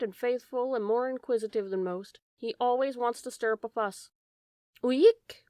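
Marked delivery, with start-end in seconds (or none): 4.8-5.4 high, loud, piercing owl call; sudden shrill bird call, swooping upward; shrill owl cry. A narrator's reading. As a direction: shriek it like a startling tawny owl. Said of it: "in a voice that is shrill, terrifying, and very piercing".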